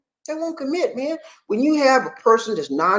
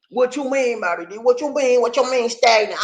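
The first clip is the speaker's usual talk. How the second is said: lightly voiced confused guy, higher; high mock-puzzled listener; 7 semitones higher than usual. Man asking Bobby D what stagnant means, higher and baffled.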